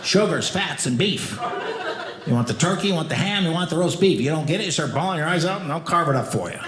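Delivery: lightly voiced coach in a pre-game huddle; buffet coach dad. Dad briefing the family outside the buffet, coach voice. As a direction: lay down the rules like a coach, pitch lifting. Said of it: "my dad would turn into, like, a buffet coach".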